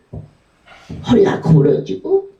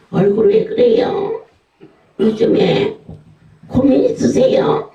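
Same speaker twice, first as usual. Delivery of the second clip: much higher, mock concerned prying; nosy busybody. Asking a woman about her face, high mock concern. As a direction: ask like a prying neighbor. Mimics nosy question to women.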